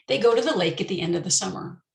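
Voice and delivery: quick, with the small words run together; fast natural speech. Shown as a demonstration. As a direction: rattle it off the way a native would. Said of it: "this is my pet sentence".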